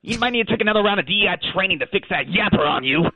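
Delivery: affronted Aussie dog; touchy, indignant comeback; mild indignant outburst. Acted. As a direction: take offense in broad Australian. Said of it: "I apologize for my outburst".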